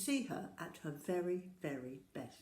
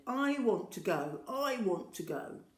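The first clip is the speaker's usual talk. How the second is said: whiny little sister; 3 semitones higher than usual. Acted. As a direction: drag out each word like a demanding toddler. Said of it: "just like that".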